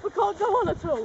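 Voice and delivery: whining. Acted. Whining exhausted on the walk.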